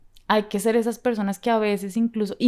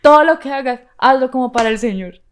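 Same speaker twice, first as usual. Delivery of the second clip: declaring scripture; 3 semitones higher, 9 dB louder than usual. Retold or imitated. Retold self-encouragement quoting scripture.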